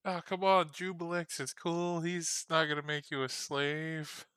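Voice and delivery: high, loud called-out plea; shout from the tavern. Acted. Ajax calling out from the tavern, loud and high. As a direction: shout it across the tavern, pleading. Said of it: "You just hear Ajax shout from the tavern".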